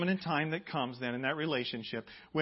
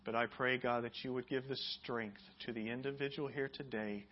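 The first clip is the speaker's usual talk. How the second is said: prayer; 2 semitones lower than usual. Acted. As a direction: pray gently over the room. Leads prayer.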